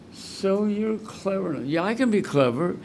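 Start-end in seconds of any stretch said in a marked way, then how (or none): 0.1-1.7 tag. Real, not acted. Savouring a repeated quote.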